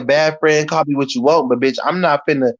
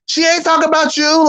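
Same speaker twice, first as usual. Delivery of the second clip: high nervous plea; 12 semitones higher than usual. Retold or imitated. Telling Leslie the insult was not aimed at her, high and nervous. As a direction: squeak it out to calm things down. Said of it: "I was like".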